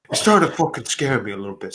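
slightly deepened character voice; deep character voice. Acted. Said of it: "I also forgot my deep".

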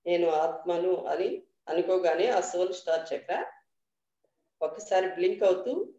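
measured meditation guidance with long pauses; guided meditation. Real, not acted. Teacher leading the group into dhyanam, guided meditation voice. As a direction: guide them unhurriedly, a little softly, phrase by phrase.

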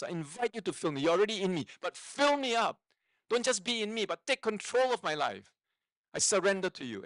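earnest, insistent prayer, pitch lifted in places; prayer of surrender. Shown as a demonstration. Pastor showing listeners a simple prayer, earnest surrender. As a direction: pray it out, pleading to be filled. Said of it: "say a simple prayer of surrender".

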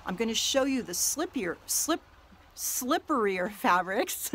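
teeth chattering from the cold; stumbling over words, shivering. Real, not acted. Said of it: "my teeth are chattering".

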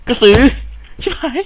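high, loud frightened yelling; panicked shouting. Real, not acted. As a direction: scramble for safety, yelling. Panics after seeing krasue. (ตะโกนลนลานด้วยความกลัว)

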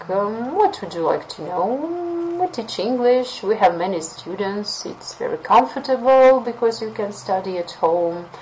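hesitant, rambling, unsure; unconfident pitch. Shown as a demonstration. Teacher demoing an unconfident school presentation. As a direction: fumble for words like you don't care. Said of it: "too inconfident".

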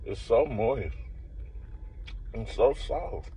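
chewing while talking; muffled savouring murmurs; mouth full chewing. Real, not acted. Seen 0: Bites cookie at -2.0; jaw and lips work throughout while savouring.

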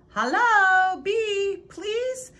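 high, loud call; bright sing-song call across the wall. A narrator's reading. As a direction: call over the wall to a friend. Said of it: "he called".

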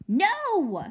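sudden loud high scream of no. A narrator's reading. Girl screaming to stop her father visiting the witch, loud. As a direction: shriek it out in panic.

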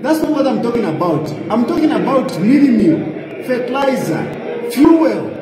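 mock shout peaking on fuel; heated reply. MP lecturing the president about prices, mock shout.

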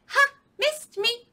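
high, loud singsong taunt; teasing monkey. Acted. Monkey teasing the alligator, high playful taunt. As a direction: taunt like a cheeky little monkey.

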